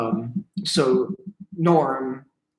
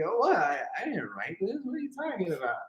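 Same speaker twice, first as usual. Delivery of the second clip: Norm Macdonald; 7 semitones higher, 5 dB quieter, faster than usual. Retold or imitated. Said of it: "Norm's just like".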